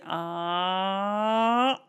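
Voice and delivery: mock open-mouthed "aah" before a bite; drawn-out "ah". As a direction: open wide for the spoon. Acting king about to eat.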